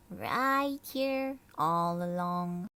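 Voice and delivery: lightly voiced old grandmother. Abuela tells Martina the mouse was there all along, lightly voiced. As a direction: answer knowingly.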